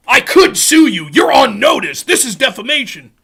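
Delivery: hammed-up emphatic bluster; mock legal threat. Streamer mimicking a lawyer's threats, mock indignant bluster. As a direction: hurl each threat as a mocking proclamation.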